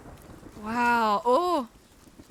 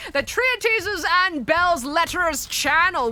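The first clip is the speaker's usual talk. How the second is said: mock grand announcement; 4 semitones higher, 5 dB louder, slower than usual. Reads a pompous channel name aloud.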